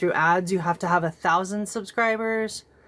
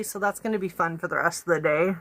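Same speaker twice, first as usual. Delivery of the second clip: talking with a burnt tongue; words round a scalded tongue; after scalding hot coffee; 2 semitones lower, faster than usual. Real, not acted. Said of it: "I just burnt my tongue on my coffee".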